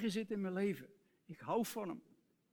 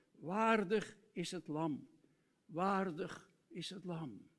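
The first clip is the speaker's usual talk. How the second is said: slow, solemn repeated refrain; slower than usual. Acted. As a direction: let the worship line settle, slowly.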